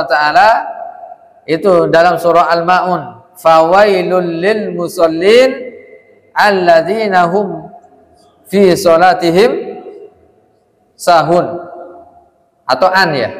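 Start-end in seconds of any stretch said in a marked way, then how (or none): 3.4-11.6 slow, drawn-out verse recitation; Quran recitation. Shown as a demonstration. Teacher quoting Surah Al-Maun to students, slow recitation. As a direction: recite slowly, holding the long vowels.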